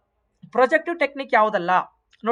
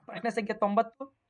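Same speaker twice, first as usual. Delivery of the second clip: whisper; 7 dB quieter than usual. Real, not acted. Teacher repeats question number whispered.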